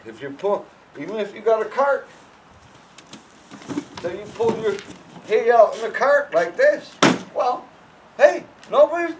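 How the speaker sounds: high, loud, claiming your space; blustering at the herd as you pull the cart; loud bossy talk. Shown as a demonstration. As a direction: handler warning the horses off his cart. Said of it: "you just talk like this".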